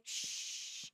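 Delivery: a soft unvoiced shush; quiet yourself with a breathy shh; hushing. Real, not acted. Hushing herself mid-ramble.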